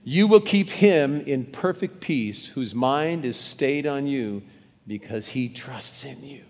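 slow, deliberate reading aloud; slow unison reading of the verse; read out loud. Shown as a demonstration. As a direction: read it aloud slowly with the room. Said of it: "Let's read this one out loud".

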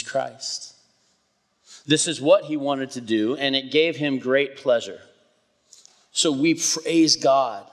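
measured public Bible reading, firm on phrase openings; scripture reading. Real, not acted. Pastor reads Paul's letter to the congregation, measured scripture reading. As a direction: read it out deliberately, pausing between phrases.

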